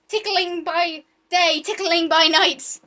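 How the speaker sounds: slow dramatic recital. Acted.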